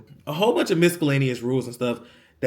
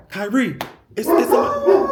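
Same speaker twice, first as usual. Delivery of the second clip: mimicking door caller; 11 semitones higher, 7 dB louder, slower than usual. Random man at the door.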